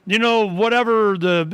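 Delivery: high, insistent imitation of the friend; friend pleading. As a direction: pitch it up and press him to drop anarchism. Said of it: "But he goes".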